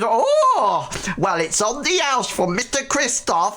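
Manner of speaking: high, laughing tavern barmaid call; cheery barmaid. Acted. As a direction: shout the order across the bar, jolly. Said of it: "And she says".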